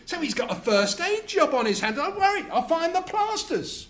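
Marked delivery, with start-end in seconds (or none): 2.0-3.9 1 frazzled dad. Acted. Husband to hurt child.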